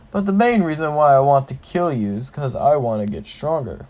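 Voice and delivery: lightly voiced orc boss; orc shaman. Orc shaman explaining himself to the kid, lightly menacing. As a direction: play a smug villain, hitting phrase openings. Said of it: "The orc shaman laughs, says".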